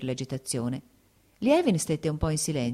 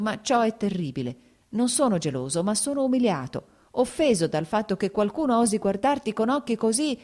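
breaking voice; 3 semitones higher than usual. Acted. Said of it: "la voce si spezzava".

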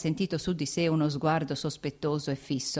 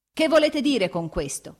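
higher, louder frightened demand; horrified cry; 8 semitones higher, 5 dB louder than usual. A narrator's reading. Anna to Vronsky, crying out in horror. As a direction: cry out in horror at his hateful look. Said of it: "ella gridò".

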